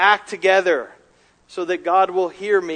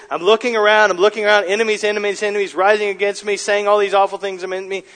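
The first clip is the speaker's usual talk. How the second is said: slightly raised, mounting voice of someone surrounded; harried recital; 2 semitones higher, 3 dB louder, faster than usual. Acted. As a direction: pile the phrases up without letting go. Voices David amid rising enemies.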